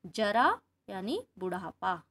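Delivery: जरा said slowly with a hard j; slow contrast, j in जरा; plain j; j sound. Shown as a demonstration. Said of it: "केवल एकमात्र बिंदु लगाने".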